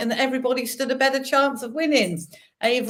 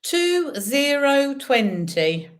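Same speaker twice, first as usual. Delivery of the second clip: bingo caller. Acted. Bingo calling numbers.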